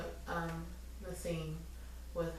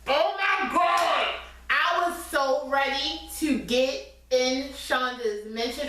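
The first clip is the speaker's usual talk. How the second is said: exasperated relief; 7 semitones higher, slower than usual. Real, not acted. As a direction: blow it out, overwhelmed. Relief after tense scene.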